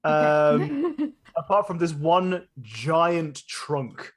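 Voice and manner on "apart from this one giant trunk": slow, spaced-out scene description; game master narration. A narrator's reading. Game master describing a giant tree to players, measured narration. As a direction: paint the scene slowly, pausing between phrases.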